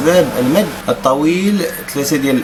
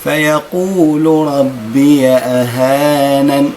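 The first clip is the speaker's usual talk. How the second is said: ربي أهانن recited slowly in chant; slow recitation; much slower than usual. Shown as a demonstration. Teacher reciting the verse for students, slow chant. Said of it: "هكذا".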